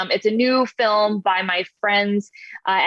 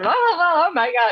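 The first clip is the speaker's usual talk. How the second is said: put-on wacky drunk announcer voice, high, drawn out; 8 semitones higher than usual. Demonstrating the take they loved, as the wackiest drunk lottery announcer. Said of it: "wackiest, most like drunk, crazy lottery related announcer".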